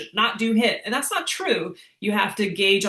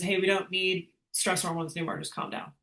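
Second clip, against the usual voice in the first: softer, fading to a whisper on just calm down; soothing heart voice; 5 dB quieter than usual. Retold or imitated. Coach voicing the heart telling the brain to calm down, hushed. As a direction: hush the brain like a calming heart. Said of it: "a signal to your brain that says".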